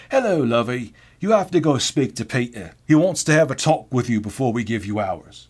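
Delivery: put-on subdued older British woman; British lady imitation with the cheer drained out; Joan. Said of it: "She was more like".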